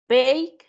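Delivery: Bake said as one clean syllable, no added it sound; pronunciation demo. Shown as a demonstration. Teacher modelling Bake for students, one clean syllable. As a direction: model Bake for the class, ending crisp on k. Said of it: "No es bake it, no".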